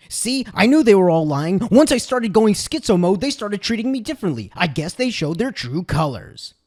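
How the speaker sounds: loud, self-vindicated rant easing off at the end; mock paranoid accusation. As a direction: play the paranoid coworker proven right. Acted paranoid coworker's triumphant accusation.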